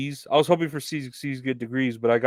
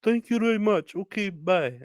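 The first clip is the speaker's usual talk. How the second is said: higher, clipped mock farewell; curt goodbye; 9 semitones higher than usual. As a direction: toss off a high, curt goodbye. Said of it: "customer hangs up".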